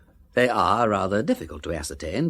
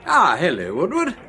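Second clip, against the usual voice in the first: louder, higher hello called across the hall; calling out a greeting; 11 semitones higher, 7 dB louder than usual. Acted. Arriving at the flat, calling to the servant Woodward, loud hail. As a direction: hail the servant brightly from the door.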